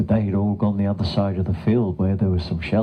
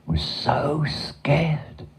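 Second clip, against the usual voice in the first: higher, slow and drawn out; scared narration; 6 semitones higher, much slower than usual. A narrator's reading. Narrator telling children of the cow's fright, fearful. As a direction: stretch SO with storybook dread.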